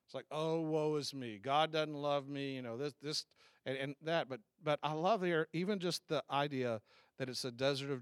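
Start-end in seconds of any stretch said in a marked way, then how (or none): 0.3-2.5 slow, mildly mock self-pitying moan; a drawn-out, put-on woe-is-me. Mocking those who despair in deserts, slow mock self-pity.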